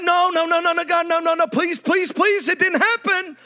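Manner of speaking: panicked driver begging it didn't happen; pleading denial. Retold or imitated. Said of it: "You're like".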